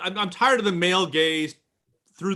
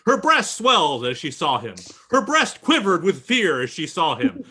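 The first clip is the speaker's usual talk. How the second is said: mock melodrama; 3 dB louder than usual. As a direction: lively parody of overwrought prose. Mocking men's purple prose about women.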